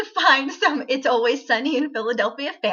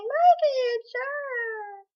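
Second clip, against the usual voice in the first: dismissive quote, higher and fast, dropping away; mock dismissive; 13 semitones higher, 4 dB quieter, much slower than usual. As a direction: brush the name off with a sneer. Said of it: "they don't say it like that".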